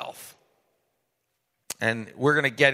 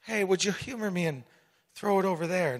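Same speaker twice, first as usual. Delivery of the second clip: gentle request; 3 semitones higher, 6 dB quieter, faster than usual. Retold or imitated. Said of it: "Jesus just looks and says".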